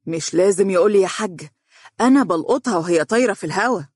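mildly boastful assurance; self-assured, knowing son; confident. Acted. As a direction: say it with breezy confidence. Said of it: "وقال بثقة".

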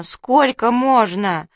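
slow, loud wail of despair; lamenting.

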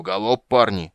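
loud rallying cry; yelling. A narrator's reading. Dwarf leader urges his lads to gallop, yelling. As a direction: yell to spur the lads on. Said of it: "завопил Ярпен Зигрин".

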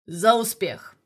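loud barked toast. A narrator's reading. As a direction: bellow the toast across the table. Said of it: "гаркнул Ржевский". (громко гаркнуть тост)

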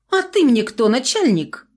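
put-on skinny girl defying the boss; defiant retort. A narrator's reading. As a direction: throw it back at him.

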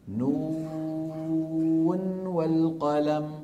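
"نون والقلم" drawn out very slowly, the final nun clearly sounded; slow recitation of "نون والقلم" with the nun held apart. Shown as a demonstration. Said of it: "فيظهر النون".

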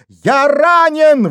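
high slow howl of pain; вой. A narrator's reading. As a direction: wail that he is hurt. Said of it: "взвыл Вайнер".

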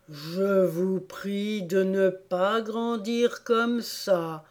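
very slow, drawn-out Dormouse voice; slow, plodding grumble; complaining Dormouse. Acted. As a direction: drag out the polite complaint. Sleepy Dormouse complains to Alice.

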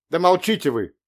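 put-on mother hushing her children loudly; sharp hush. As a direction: shut the kids up sharply. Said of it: "цыкнула на них мать".

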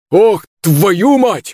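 man yelling in pain across the street; drawn-out curse cry. Acted. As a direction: stretch the curse out, 'твою' held long and falling. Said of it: "услышал я знакомый крик".

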